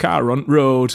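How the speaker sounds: put-on northern English accent with broad vowels. Retelling a video where a dad says a phrase: imitating a dad's northern accent. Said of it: "say it in a northern accent".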